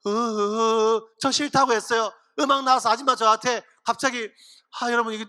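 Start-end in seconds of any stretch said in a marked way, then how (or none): 0.1-1.0 wordless mock music cue, hummed out; imitated background music. Joseph recounts the music starting, imitated musical sound. 1.2-4.3 mock foreign-worker accent in Korean, choppy short sentences; foreigner's broken Korean. Joseph testifies at an Egyptian church, mock foreigner accent in Korean. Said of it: "제가 요셉이라면 이렇게 간증하겠어요".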